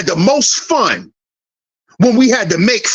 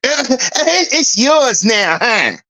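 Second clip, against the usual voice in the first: laughing mock; much slower than usual. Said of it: "now you acting like it's mama".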